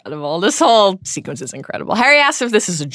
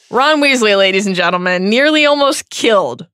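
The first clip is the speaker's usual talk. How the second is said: mock announcer. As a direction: present him to a crowd.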